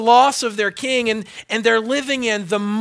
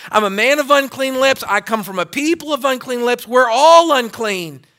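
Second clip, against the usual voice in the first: louder, anguished prophet's cry; hammed-up cry of ruin; crying out in woe; 3 semitones higher, 4 dB louder than usual. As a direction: retell Isaiah's despair. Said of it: "he cried out".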